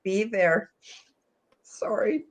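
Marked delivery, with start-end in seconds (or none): 1.6-2.2 whispered sorry. Real, not acted. Apologising while choked up with emotion.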